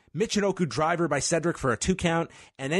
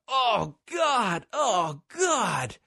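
mock scream; 8 semitones higher, much slower than usual. Co-host mimicking Alexander overselling the pain, mock screaming. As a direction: wail it in pain without real volume. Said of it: "Alexander's just screaming".

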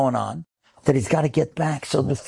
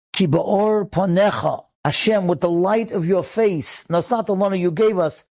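slow, raised praying voice; higher, deliberate plea to God; heartfelt retold prayer; 5 semitones higher than usual. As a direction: draw out each phrase as an earnest prayer. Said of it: "Listen how he said it".

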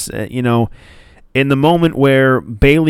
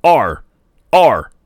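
mock lame pirate R's, a bit louder; weak pirate R's; 3 semitones higher, 4 dB louder, slower than usual. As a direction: imitate a limp, gritless pirate growl. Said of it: "Hogan's just like".

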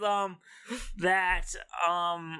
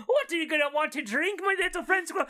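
bar patron voice; 9 semitones higher, faster than usual. Pretend. Man at bar to squirrel.

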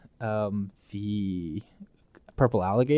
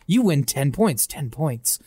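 echoing voices; 2 semitones higher than usual. Acted. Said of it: "Two voices behind you echo".

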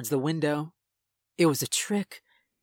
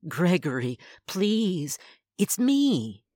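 rising, higher pleading mother; plead, voice climbing higher; begging mother; 4 semitones higher, slower than usual. Acted. Thing posing as mother begging her son to open, climbing higher.

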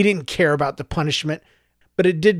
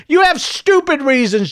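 high, loud, angry retort; shouted; 9 semitones higher, 4 dB louder than usual. Acted. Son shouting at his mother's reasons. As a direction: throw it back at her. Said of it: "Joseph shouted".

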